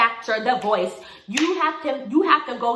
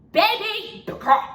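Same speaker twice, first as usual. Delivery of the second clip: slow sassy drawl; 11 semitones higher, 4 dB louder, much slower than usual. Acted. Drawn-out sassy baby girl to the viewer.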